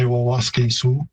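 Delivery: "Wawaske Sioux" with a doubled wa and a long "kay"; Plains Cree pronunciation. Shown as a demonstration. Linguist showing the host the Plains Cree form, carefully pronounced. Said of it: "in Plains Cree, I'd say".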